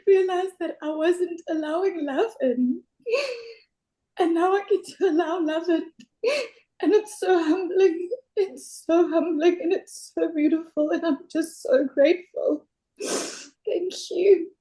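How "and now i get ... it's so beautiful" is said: tearful. Real, not acted. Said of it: "because you're crying".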